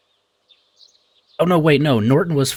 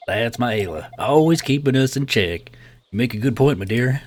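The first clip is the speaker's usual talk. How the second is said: put-on Southern accent. Clinic owner concedes to his nurse, light Southern accent. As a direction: play a fond husband with a Southern accent. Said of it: "like, a southern type of accent".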